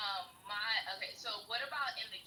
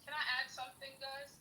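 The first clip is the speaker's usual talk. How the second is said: choppy breaking-up audio; bad connection cutting out; radio breaking up; 8 semitones higher, faster than usual. Real, not acted. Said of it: "It sound like you're breaking up".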